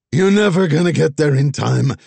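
high, loud taunting yell; shouting. Acted. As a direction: shout it as the doors close. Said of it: "Vess shouted".

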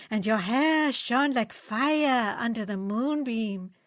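slow, swooning mock tender reading; mock romantic reading. Fritz to friends, reading Max's love letter in mock swoon. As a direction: ham up the romance slowly.

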